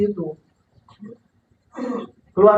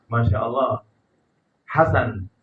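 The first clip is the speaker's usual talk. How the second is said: low, gentle praise words; pleasant intonation; 6 semitones lower than usual. Shown as a demonstration. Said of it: "Semuanya indah". (intonasi lembut dan indah)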